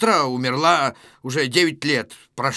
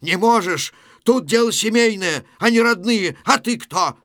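loud, high indignant yell; shouting; 6 semitones higher, 5 dB louder than usual. Acted. Policeman Medvedev challenging Satin in the brawl, shouting. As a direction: shout him out of the family's business. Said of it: "Медведев кричит Сатину".

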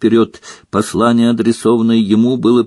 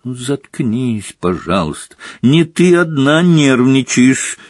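exasperated; 3 semitones higher than usual. Acted. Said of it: "не выдержал Рон".

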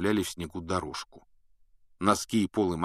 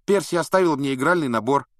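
Ron's eager voice; 9 semitones higher, 7 dB louder than usual. A narrator's reading. Ron keeps distracting.

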